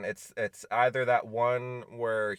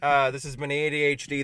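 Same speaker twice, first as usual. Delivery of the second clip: announcer voice; 5 semitones higher, 7 dB louder than usual. Pretend. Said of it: "I'm still in the announcer voice".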